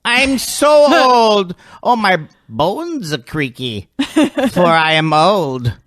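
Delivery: put-on high, slow, creaky old man. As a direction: stretch it out, ancient and frail. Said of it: "my old man character is on my reel, and it's terrible".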